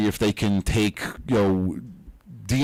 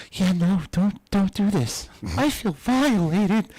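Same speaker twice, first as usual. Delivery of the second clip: mock reluctant; 9 semitones higher, slower than usual. Mock reluctant Marine quote.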